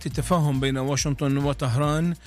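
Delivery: measured formal headline read; formal Arabic radio news delivery. Acted. Anchor reads headlines.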